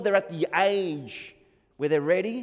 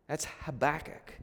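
usual speaking voice

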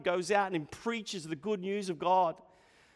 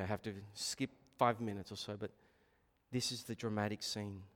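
hushed sermon; 7 semitones lower, 8 dB quieter than usual. Acted. Hushed dramatic preaching.

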